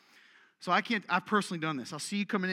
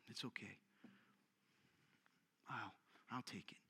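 soft, lower, put-upon martyr voice; mock martyr; 7 semitones lower, 19 dB quieter than usual. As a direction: sigh it out like a long-suffering martyr. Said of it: "always a martyr".

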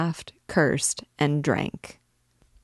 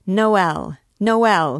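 raised, higher cry falling at the end; shout; 4 semitones higher, 5 dB louder than usual. A narrator's reading. Young scamp to the noisy tavern, shouting. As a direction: shout it out above the uproar. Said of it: "he shouted".

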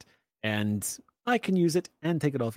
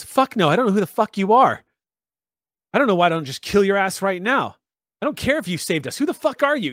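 raised, swearing hard at a stranger; angry refusal; 5 semitones higher, 3 dB louder than usual. Acted. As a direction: tell him off loudly. Tara angrily refusing, swearing.

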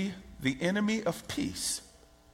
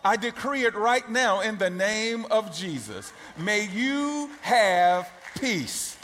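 preaching blessing; slower than usual. Acted. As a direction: proclaim peace over them. Decreeing peace over the congregation.

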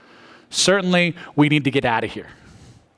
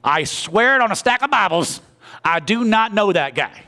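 slow swearing, the second oath higher; emphatic oath; 4 semitones higher than usual. Shown as a demonstration. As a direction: insist you're telling the truth, building. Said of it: "Sounds something like this".

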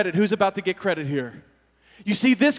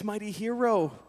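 gentle reassurance; 6 dB quieter, slower than usual. Retold or imitated. God speaking to listener.

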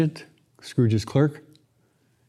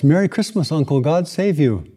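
higher, bright greeting from the nephew; cheerful nephew; 3 semitones higher than usual. Acted. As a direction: call it out gladly, a light cheerful nephew. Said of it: "a cheerful voice".

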